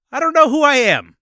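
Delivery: pained high wail; desperate high cry. Retold or imitated. Beaten character answering.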